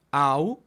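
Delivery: au said like the ow in cautivo; Greek diphthong au. Shown as a demonstration. Teacher demonstrating au to the class, clearly and loudly. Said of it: "como en cautivo".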